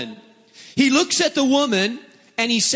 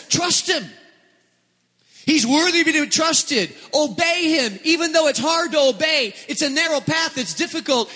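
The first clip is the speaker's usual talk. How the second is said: much higher, bright pleading urgency; encouraging inner voice; 8 semitones higher than usual. Acted. Pastor voicing the hopeful voice to the congregation, higher. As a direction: lift it up with hope.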